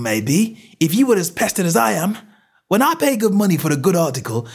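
high, fast, indignant stallholder; exasperated outburst, pitch right up; angry tirade. A narrator's reading. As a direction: rant like a pestered tradesman. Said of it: "provoked a burst of anger".

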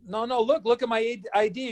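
insist, voice lifted; retold pleading. Rookie showing the usher his ID, pleading.

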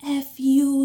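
loud, high mock insult; retold defiant curse. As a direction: throw the curse like the intruder. Intruder curses at mom, retold.

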